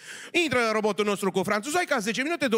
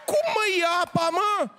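high-pitched incredulous rant; outraged priest; 9 semitones higher than usual. Acted. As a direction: squeal it high, can't believe it. Priest ranting at gypsy. (preot revoltat, voce foarte subțire)

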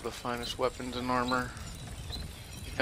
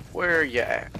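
louder searching call; 5 dB louder than usual. Real, not acted. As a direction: call out to find someone.

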